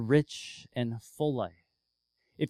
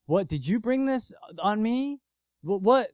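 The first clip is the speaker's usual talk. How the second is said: retold accusation; 7 semitones higher, 4 dB louder than usual. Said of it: "the widow comes to Elijah and goes".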